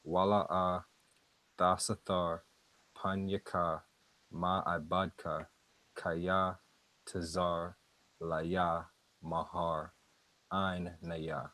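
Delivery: each Hebrew word said slowly with a pause after it. Shown as a demonstration. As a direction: spell out Wala'a, dasatar, panyaka word by word, slowly. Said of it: "Let me say that a little slower".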